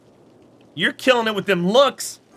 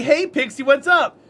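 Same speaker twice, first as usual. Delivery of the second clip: high, bright retold greeting, a bit louder; own cheery greeting; 6 semitones higher, 4 dB louder than usual. Greeting her friend Pixie in chat, cheery and high. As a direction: chirp the hello like you just spotted her. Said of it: "And I'm like".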